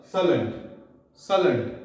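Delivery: both vowels of "सलेंट" reduced to "uh"; schwa sound. Shown as a demonstration. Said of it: "तो अ sound produce हो जाएगी".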